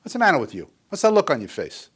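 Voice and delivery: loud, high, fast furious tirade; enraged dad berating the kid at the table; angry father. Retold or imitated. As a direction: tear into the child across the dinner table. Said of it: "say something like this".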